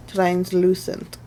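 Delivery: slow, drawn-out mystery accent on Translucent; unplaced put-on accent. Real, not acted. Naming her powder shade to viewers, in a random slow accent. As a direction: stretch Translucent out in a vague foreign accent. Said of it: "I don't know why I said that with an accent".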